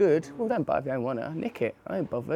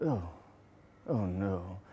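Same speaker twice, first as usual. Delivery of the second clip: dismayed pundit; 5 semitones lower, 6 dB quieter, slower than usual. Pretend. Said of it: "he'd read them like this".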